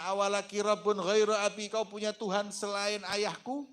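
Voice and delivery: put-on child asking. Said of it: "anaknya tanya".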